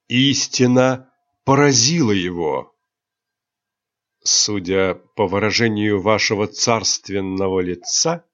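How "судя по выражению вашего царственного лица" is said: cold. Acted. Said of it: "холодно произнёс Рионар".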